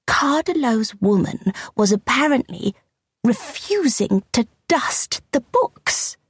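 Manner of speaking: put-on high, drawn-out kittenish old lady; little old lady's kitteny complaint, slowing at the end; tiny kitteny voice. A narrator's reading. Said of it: "in her tiny, kitteny voice".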